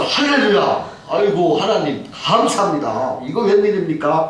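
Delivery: retold joyful thanks, opening high; acted delight. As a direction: exclaim thanks, drawing the words out. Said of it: "막 좋아 이렇게 하는데". (기뻐서 감사하는 탄성)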